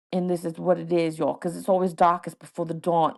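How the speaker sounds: put-on rusty, half-hearted British rapper accent. Podcaster demonstrating a song for listeners, light British accent. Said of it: "since I've done my British accent".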